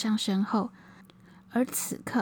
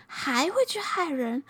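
raised, high scolding lament; angry; 5 semitones higher than usual. Acted. Old monk scolds Zhou Xing for freeing the tigers, raised angry scolding. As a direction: berate him for letting the tigers go. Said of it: "老和尚气愤地说".

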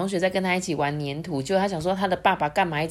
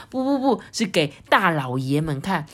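a hint of a fussy correcting mother; lightly voiced queen correcting. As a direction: correct the song eagerly. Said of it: "结果皇后说".

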